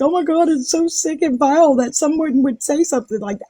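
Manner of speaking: mockingly scandalized quote; mock outrage. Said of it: "And she was like".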